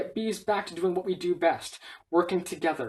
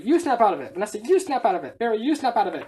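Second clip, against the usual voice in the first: heated mock squabble; 3 semitones higher, 4 dB louder than usual. Slapping quarrel resumes.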